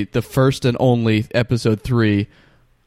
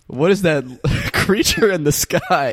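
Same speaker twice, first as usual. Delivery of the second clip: high theatrical gasp at sky; hammy stage actor; 5 semitones higher than usual. Acted. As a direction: declaim it like an old play. Mock dramatic alarm.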